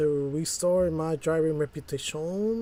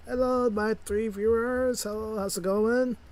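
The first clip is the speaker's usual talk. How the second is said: cheery greeting; 6 semitones higher than usual. Real, not acted. Streamer greeting his three viewers, high and cheery.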